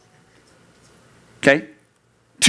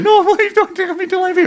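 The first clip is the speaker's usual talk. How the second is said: put-on much higher, squealing kid's plea; pleading kid; 3 dB louder, faster than usual. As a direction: beg like a ticklish child. Kid pleading while tickled.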